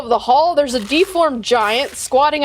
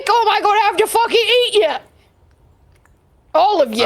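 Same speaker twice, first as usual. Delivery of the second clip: giant's demanding bellow; 7 semitones higher, faster than usual. Acted. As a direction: roar it out like a greedy giant. Giant threatens to eat them.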